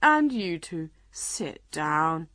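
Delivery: a hint of a weary big beast; tired order, falling away; lightly voiced lion. A narrator's reading. Lion telling king and unicorn to sit, wearily commanding. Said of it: "he said to the king".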